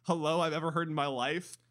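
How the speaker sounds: incredulous mock outrage. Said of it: "I'm like".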